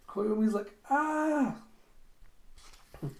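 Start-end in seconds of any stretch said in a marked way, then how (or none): 0.9-1.6 very high held "ah"; childish squeal. Retold or imitated. Child answering Alita in the retelling, high squeal. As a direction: squeal like a delighted toddler.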